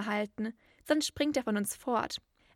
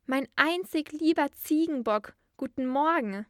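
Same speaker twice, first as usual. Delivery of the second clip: higher, louder affectionate teasing; storybook girl's boisterous endearment; playful greeting; 4 semitones higher, 5 dB louder than usual. A narrator's reading. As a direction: sing out a fond good morning. Girl teasingly greets her mother.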